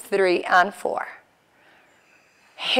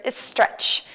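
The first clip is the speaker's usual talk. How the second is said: "stretch" with a Mexican accent. Shown as a demonstration. Yoga teacher joking to the class about their own word, Mexican accent. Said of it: "My Mexican accent, can you hear it?".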